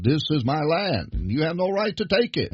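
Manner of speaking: rising, indignant claim of ownership; claiming the land. Retold or imitated. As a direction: voice them insisting the land is theirs. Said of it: "they all claim".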